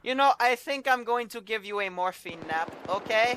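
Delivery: strip the prisoner's kit piece by piece in a hammed German accent; mock German accent. Officer confiscating the prisoner's gear, in a mock German accent. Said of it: "you really gotta work on your German accent".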